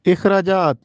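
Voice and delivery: short i at the start of اخراجات; correct pronunciation. Shown as a demonstration. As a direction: say اخراجات as "ikhrajaat". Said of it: "یہ درست تلفظ اخراجات ہے". (اخراجات کو زیر سے "اِخراجات" پڑھیں)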